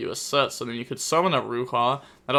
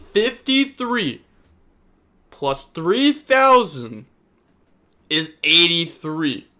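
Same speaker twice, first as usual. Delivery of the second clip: sarcastic counting; 4 semitones higher, 5 dB louder, slower than usual. Real, not acted. Sarcastic math for the player.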